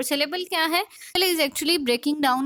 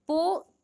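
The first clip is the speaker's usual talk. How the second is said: पो set apart and pitched higher; stressed syllable; 4 semitones higher than usual. Shown as a demonstration. Teacher breaking down poet for students, पो stressed. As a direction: isolate पो as the stressed first syllable. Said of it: "first syllable थी उस पे आप stress दे रहे हो".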